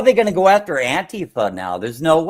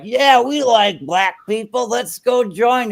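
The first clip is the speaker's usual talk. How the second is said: mock naive protester; 7 semitones higher, slower than usual. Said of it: "the white people are like".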